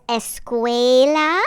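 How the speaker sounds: escuela said slowly, Spanish vowels, es-KWEH-la; Spanish word. Shown as a demonstration. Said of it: "I said escuela".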